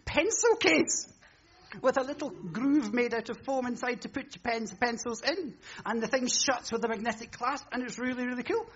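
preacher parodies a TV seller piling on extras; hammed-up advert pitch. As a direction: escalate the pitch with each bonus, laughing at the end. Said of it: "shopping channel pitch escalating".

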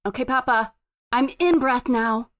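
lightly voiced toddler, settled and matter-of-fact; little child recovered. Rested three-year-old reporting back to Papa, composed. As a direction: announce it simply, like a small child.

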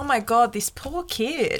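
softening, drawn-out mock pity; sympathetic, trailing off slowly; pitying nurse. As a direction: voice a nurse feeling sorry for a child. Imagines the nurse pitying him.

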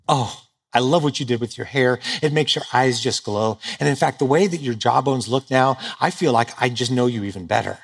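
gushing lady. Retold or imitated. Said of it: "this is how ladies talk".

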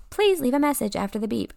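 mock automated voicemail voice; voicemail greeting. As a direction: mimic a recorded phone greeting. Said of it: "They said".

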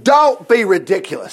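firm, brisk put-down; Saul's dismissal. Acted. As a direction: dismiss the idea outright. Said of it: "Saul replied".

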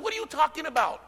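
God's incredulous rebuke, rising high and loud; scolding the man who missed every rescue, high and loud; exasperated God. Retold or imitated. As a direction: build to an outraged shout of disbelief.

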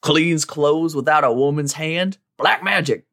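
put-on slow, superstitious old-timer voice; old prospector. Cowboy voiced in Best Buy.

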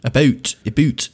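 "a boot" said as "aboot", with an oo vowel for Canadian about; mock Canadian "a boot", lightly voiced. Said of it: "hard accent".

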